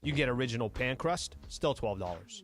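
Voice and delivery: lively, conversational sponsor read; radio ad read. Acted. Host pitching a pizza deal to listeners, upbeat ad read. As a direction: sell it casually, hitting each item on the list.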